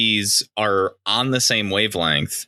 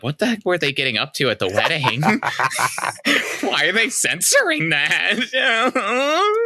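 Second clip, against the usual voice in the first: mock confused viewer; 5 semitones higher than usual. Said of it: "people are gonna be like".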